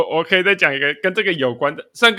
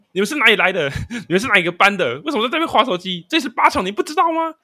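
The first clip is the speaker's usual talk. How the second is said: scolding officer; 5 semitones higher than usual. Retold or imitated. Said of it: "那个阿伯…就说".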